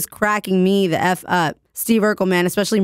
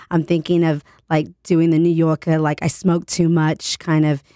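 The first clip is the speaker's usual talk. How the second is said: sexy Brooklyn accent; 2 semitones lower than usual. Shown as a demonstration. Host trying out a New Yorker for listeners, sexy Brooklyn accent. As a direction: put on a husky Brooklyn smoker's accent. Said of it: "sexy Brooklyn accent".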